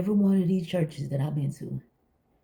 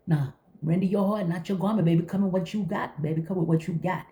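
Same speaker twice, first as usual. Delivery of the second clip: higher, sing-song preachy voice; preachy church lady; 4 semitones higher than usual. Retold or imitated. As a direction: preach it with fake holiness.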